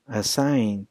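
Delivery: "assigned" ending in a voiced D. Shown as a demonstration. Teacher demonstrating the D sound, "assigned" closing on D. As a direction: finish "assigned" on D, no extra syllable. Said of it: "then the sounds that I pronounce sounds like".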